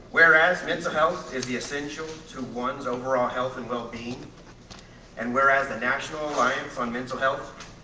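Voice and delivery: formal proclamation reading. Acted. Reads a proclamation aloud.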